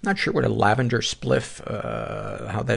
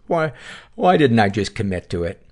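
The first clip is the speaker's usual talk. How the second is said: usual speaking voice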